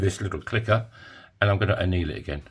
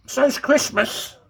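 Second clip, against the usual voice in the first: sarcastic quip; much slower than usual. Pretend. Sarcastic retort to "nearly there.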